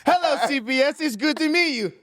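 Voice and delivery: squeaky-high mock kid greeting; flinching child. Flinching child greets child-services visitors, mock childlike and very high. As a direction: imitate a nervous, over-rehearsed little kid. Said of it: "And he flinches".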